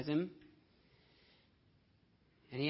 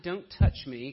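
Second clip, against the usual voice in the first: "Don't touch me" barked out loud, with "Don't" hit hard; loud mock rebuff; 9 dB louder than usual. Shown as a demonstration. Preacher voices the wrong reading, loud and rebuffing. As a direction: bark "Don't" at her, much louder. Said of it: "It's not".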